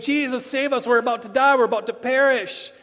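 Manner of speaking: imitating men crying out for rescue. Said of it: "and they're crying out".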